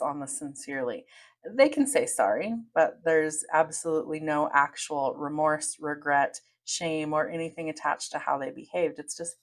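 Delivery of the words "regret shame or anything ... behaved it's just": usual speaking voice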